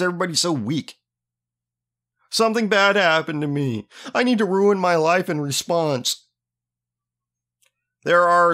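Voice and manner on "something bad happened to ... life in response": lightly hammed-up victim voice, pitched up; mock self-pity. Host mocking people who binge after trouble, mock self-pity. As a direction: mimic a helpless whiner.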